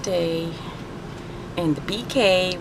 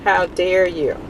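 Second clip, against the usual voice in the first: a lighter repeat of the scolding; half-hearted fake indignation; milder mock outrage; slower than usual. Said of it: "I'm so mad at them".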